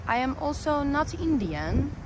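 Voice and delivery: put-on, not very convincing Indian accent; mock Indian accent. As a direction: attempt a clumsy Indian accent. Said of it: "that was a horrible accent".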